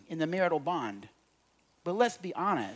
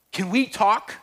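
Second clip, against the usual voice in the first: a higher, louder ominous "we need to talk"; 5 semitones higher, 6 dB louder, slower than usual. Retold or imitated. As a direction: imitate the wife's dreaded opener, pitched higher. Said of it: "in that tone".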